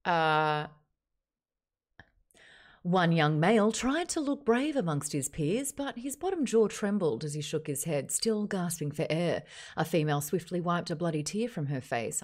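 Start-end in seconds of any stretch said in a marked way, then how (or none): 2.8-12.2 Australian TV newsreader delivery. Shown as a demonstration. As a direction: read it like the evening news. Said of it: "Like the Channel Seven News".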